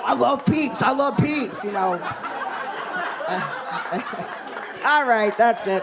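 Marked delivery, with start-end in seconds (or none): 0.0-1.6 crazed addict. Pretend. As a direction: yell it like a strung-out addict under a bridge. Imagined addict under bridge.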